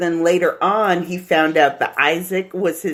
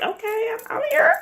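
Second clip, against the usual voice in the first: mock party voice; 5 semitones higher than usual. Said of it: "your mind is like".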